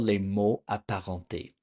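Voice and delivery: les mots apparentés said the French way; "les mots apparentés" in French, throaty r; French pronunciation. Shown as a demonstration. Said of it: "In French, it's called".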